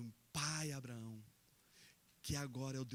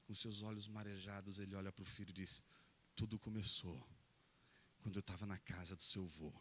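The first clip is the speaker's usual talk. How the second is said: tender retelling; 5 semitones lower, 4 dB quieter than usual. Acted. Tearful father tells son the story.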